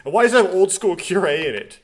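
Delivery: high, loud baffled question; incredulous objection. Real, not acted. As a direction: pitch it up in exasperated disbelief. Streamer balks at the game text.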